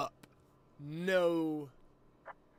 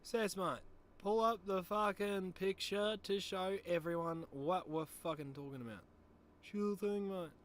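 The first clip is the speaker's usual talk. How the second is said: put-on Aussie-style bloke, a bit higher and louder; Sass voice; 5 semitones higher, 7 dB louder than usual. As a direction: play the cocky Sass character, mate. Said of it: "switching between my normal voice and the fucking Sass, mate".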